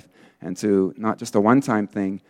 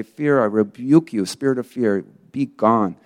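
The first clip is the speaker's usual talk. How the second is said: firm demonstrated rebuke, slightly raised; tenacious rebuke. Shown as a demonstration. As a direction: model a determined spoken rebuke. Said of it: "rebuke it verbally, out loud, with tenacity".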